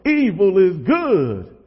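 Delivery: drawn-out, hammed-up preacher yell; gospel preacher voice. Youth preacher mimics a movie preacher yelling, gospel voice. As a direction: cry it out slowly like a gospel preacher. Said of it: "like, a real gospel voice".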